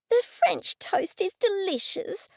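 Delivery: high, slow, delighted lady; high sweet lady voice. A narrator's reading. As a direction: gush over the food.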